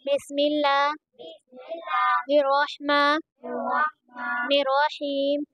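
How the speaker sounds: drawn-out recitation with long pauses between words; measured, stretched recitation of the opening; slow Quran recitation. Acted. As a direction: recite it slowly and deliberately, with careful tajweed. Opens lesson with slow recitation.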